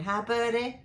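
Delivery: a hint of the little girl's voice; imitating granddaughter. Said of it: "get her on tape saying".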